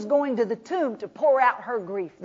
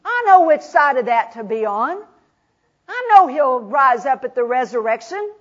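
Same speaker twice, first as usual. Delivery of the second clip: louder insistent I-know-already; Martha insisting; 4 dB louder than usual. Acted. Martha correcting the teacher, insistent and louder. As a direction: press the point, a bit defensive. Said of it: "She said".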